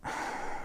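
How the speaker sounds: long, soft sigh of defeat; deflated sigh. Acted. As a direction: breathe out, quietly deflated. Reaction to watching better videos.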